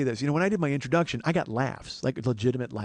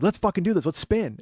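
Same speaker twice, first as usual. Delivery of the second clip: mildly fired-up, higher voice; pumped-up; 5 semitones higher, 3 dB louder than usual. Retold or imitated. Contestant eager to spin again, pumped-up excitement. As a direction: psych yourself up for the next go. Acts out his pumped-up self.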